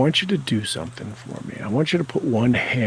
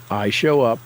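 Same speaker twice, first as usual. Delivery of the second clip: bolder affirmation. Shown as a demonstration. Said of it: "Say it again".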